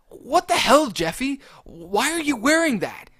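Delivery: high, loud outraged yell; Mario yelling. Acted. Mario yells at Jeffy about his pimp outfit, high and loud. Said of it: "Mario yelled".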